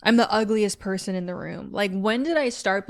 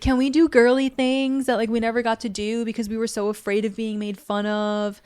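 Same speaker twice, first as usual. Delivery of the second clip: put-on innocent little girl; 2 semitones higher than usual. Inner child asks her grown self, lightly voiced innocent girl. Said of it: "super innocent, almost puppy-like".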